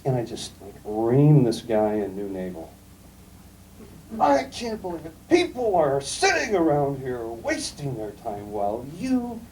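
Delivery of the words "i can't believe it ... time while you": retelling a frothing phone rant, higher in pitch; mock angry rant. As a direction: replay your own old tirade, half-mocking. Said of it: "this whole ugly, frothing, stupid display".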